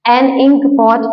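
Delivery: एन इंक पॉट slowly, each word separated; teacher slowly modelling एन इंक पॉट; slow model reading. Shown as a demonstration. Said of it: "आपको यहाँ पे सुनाई देगा ई".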